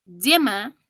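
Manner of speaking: yema said slowly with a consonant y, like ll; yema, starting on a double-L sound. Shown as a demonstration. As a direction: demonstrate yema with a firm ll onset. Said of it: "suena como doble L".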